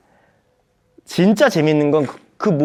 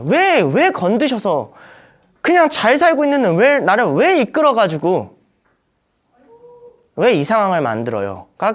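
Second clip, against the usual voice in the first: higher, drawn-out whining plea; whiny complaint; 4 semitones higher than usual. Acted. People whining at God for disturbing them, high whine. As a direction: whine it like a pestered child.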